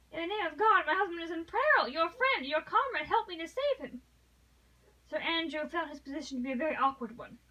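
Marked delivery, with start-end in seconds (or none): 0.1-4.0 high, loud, urgent appeal for help; pleading urgently, voice raised and pressing; desperate plea. A narrator's reading. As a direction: beg frantically for a life. Desperate wife begs for help.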